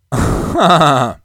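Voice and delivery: short laugh at own joke; a quick amused laugh. Real, not acted. Host laughs at his own sarcastic joke, short laugh.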